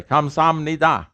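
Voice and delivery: measured "Kamsamnida" with the H left out; pronunciation demo. Shown as a demonstration. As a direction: model "Kamsamnida" clearly, no H. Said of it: "it's pronounced this way".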